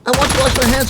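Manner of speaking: pleading repeat of his need; mock insistent request.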